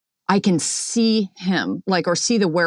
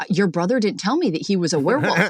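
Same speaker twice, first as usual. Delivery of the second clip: retold indignation; 2 semitones higher than usual. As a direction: act out confronting the sister, lightly indignant. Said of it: "I'm pissed off about this".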